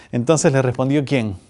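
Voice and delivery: pregunta seria y contenida; en serio. Real, not acted. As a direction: retoma la pregunta con seriedad. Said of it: "vamos en serio". (tono serio, sin bromear)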